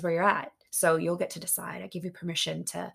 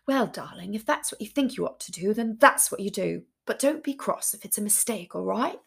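playful posh voice. Pretend. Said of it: "playfully be like".

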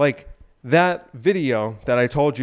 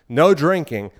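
louder, lightly imitated dad command; dad's stern order; 2 semitones higher, 5 dB louder, slower than usual. Dad to child leaving the house, lightly stern order. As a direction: lay it down like a house rule.

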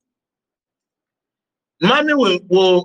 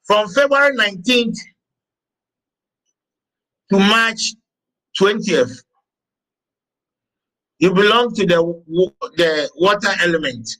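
measured dictation. Acted. Dictates dates and elements to the class.

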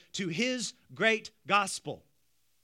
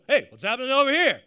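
quick, loud, higher call of a bystander in a crowd; curious onlooker; 3 semitones higher, 8 dB louder, faster than usual. Retold or imitated. Crowd member in Jerusalem calling out, quick and loud. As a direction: shout it out like someone pushing through a crowd to look. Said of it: "people go".

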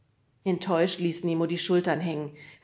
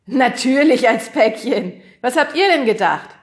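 amused; 7 semitones higher, 13 dB louder than usual. A narrator's reading. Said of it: "lachte über seinen eigenen Scherz".

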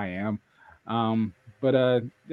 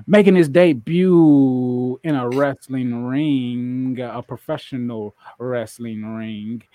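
announcer intro; 4 dB louder than usual. Acted. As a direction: sell the match like a ring announcer. Announcer-style match intro.

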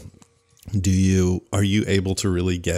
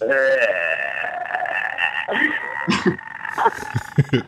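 zombie sound; 3 semitones higher than usual. Pretend. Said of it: "Here's Steven's".

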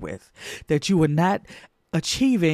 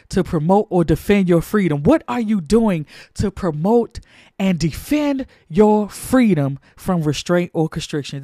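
louder, driving question; preaching climax; 3 dB louder than usual. Acted. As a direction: press the congregation hard.

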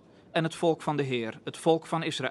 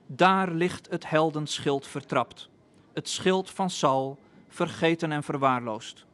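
solemn lament poem. A narrator's reading. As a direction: read it like a grave elegy over fallen heroes. David's lament read as poem.

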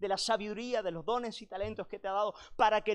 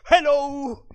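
high, loud, cheery mock hello; the Dutch guest in his underwear greets the daughter, loud and high; Dutch guest greeting; 8 semitones higher, 15 dB louder than usual. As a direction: belt out a goofy foreigner's hello.

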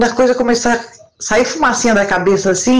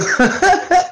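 high laugh; 8 semitones higher than usual. Real, not acted. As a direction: burst of high-pitched laughter. Laughs at the booming voice. (risada aguda)

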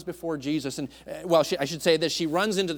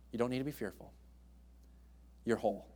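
soft, low reassurance; tender reassurance; 5 semitones lower, 9 dB quieter, faster than usual. Retold or imitated. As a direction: reassure her quietly. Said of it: "the tenderness of Christ".

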